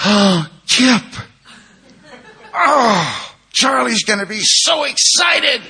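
high, loud, drawn-out squeal of delight; hammed-up overjoyed wife greeting a visitor; gushing excitement. Sponsor's wife opens the door to Kip, gushing with excitement.

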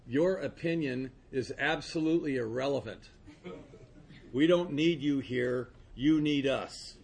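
sponsor's blunt cold dismissal, slowed down. Retold or imitated. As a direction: say it coldly and deliberately. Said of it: "I thought that was cold".

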